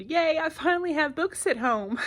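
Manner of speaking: put-on high, delighted little girl's cheer; excited child. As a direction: squeal it like a thrilled kid finally getting books. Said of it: "And she said".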